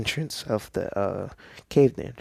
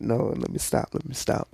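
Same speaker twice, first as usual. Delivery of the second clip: breathless, trying to stop laughing; laughing through pain. Real, not acted. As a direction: beg yourself to stop laughing. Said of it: "it hurts to laugh".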